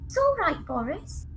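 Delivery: calm the pet down gently; quiet tender reassurance; soft reassuring. Acted. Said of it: "puts her head down to the cage and goes".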